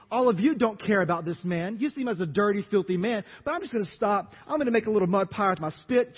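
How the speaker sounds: a lightly voiced, loud, playful Jesus; voicing Jesus. Pastor acting out Jesus healing the blind man, lightly voiced. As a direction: act out Jesus making mud pie, hamming the splat.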